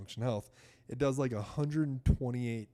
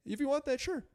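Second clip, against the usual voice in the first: very high, sneering imitation of the doctor; mocking doctor. Mocking how the doctor dismissed a thirty-nine-year-old, high sneering voice. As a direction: mimic a condescending doctor, pitched way up. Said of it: "He's like".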